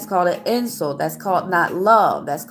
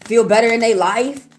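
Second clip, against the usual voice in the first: raised, higher pitch, rising anger at trolls; heated scolding; 4 semitones higher than usual. Real, not acted. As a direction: scold them, voice climbing higher. Scolding rude chat commenters.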